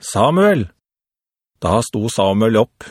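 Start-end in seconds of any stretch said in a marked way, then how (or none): 0.0-0.7 higher-pitched call of a name; measured storyteller's version of a call. A narrator's reading. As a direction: call the name out, voice lifted then falling. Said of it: "Så ropte Jehova en gang til".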